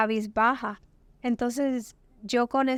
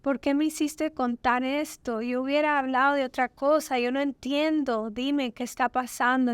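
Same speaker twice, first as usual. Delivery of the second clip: retold tearful pleading; 2 semitones higher than usual. Alone in the hotel room, crying out to God, tearful pleading. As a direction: retell a desperate cry to God, half-voiced. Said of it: "a llorar y a llorar".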